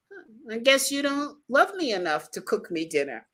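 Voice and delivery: light hint of an Italian accent; lightly imitating an Italian boyfriend's accent. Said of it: "in his Italian accent said".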